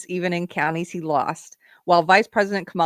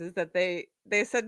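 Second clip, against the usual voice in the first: usual speaking voice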